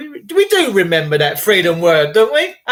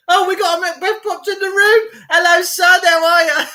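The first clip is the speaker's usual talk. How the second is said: excited greeting; 9 semitones higher, 3 dB louder than usual. Real, not acted. Greeting viewer playfully, high voice.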